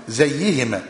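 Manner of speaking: "زيهما" with kasra on the zay and doubled ya, no hamza; "زيهما": z, short i, held double y, no glottal stop; variant reading. Shown as a demonstration. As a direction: say "زيهما" as ziyy-i-hima, opening on z. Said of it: "بزي المكسورة وي-، وياء مشددة بلا همزة".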